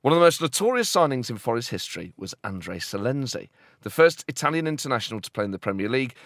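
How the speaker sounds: mock-serious documentary read; scripted comic report. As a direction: read it like an investigative feature, with measured emphasis. Reads out a scripted piece.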